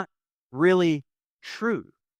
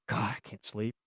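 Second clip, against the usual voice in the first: low, soft sleepless murmur; tired hushed reply; 7 semitones lower, 9 dB quieter than usual. Retold or imitated. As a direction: sigh it out quietly in the dark. Sleepless partner answering in bed.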